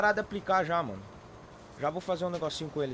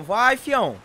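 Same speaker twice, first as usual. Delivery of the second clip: panicking gamer; 4 semitones higher, 10 dB louder, much slower than usual. Real, not acted. Urging weak car forward.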